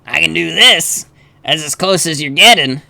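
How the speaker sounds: half-hearted suave character voice; attempted suave voice. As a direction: have a limited go at sounding suave. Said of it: "could do a suave voice".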